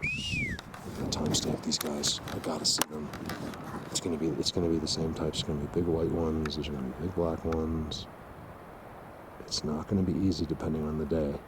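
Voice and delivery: low, soft aside at the spot; hushed. Real, not acted.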